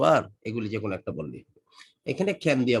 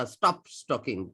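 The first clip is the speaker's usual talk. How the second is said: rude command; much slower than usual. Shown as a demonstration. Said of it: "মানে এটা একটু অভদ্রভাবে".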